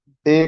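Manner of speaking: डे said short and flat, the wrong way; clipped डे without the glide; wrong day. Shown as a demonstration. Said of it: "नहीं कहा जाता".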